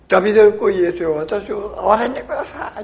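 a blind beggar shouting for mercy, high and loud; desperate loud cry. Retold or imitated. Blind man crying out to Jesus in a loud, desperate shout. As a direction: call out over the crowd, begging to be heard. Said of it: "彼が大声で叫ぶんですね".

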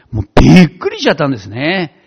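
ordinary talk

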